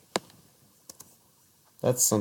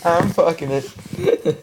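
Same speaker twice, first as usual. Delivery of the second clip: high, slow, hammed-up twist on a jingle; mock slogan parody; 8 semitones higher, 7 dB louder, much slower than usual. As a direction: sing the slogan back twisted.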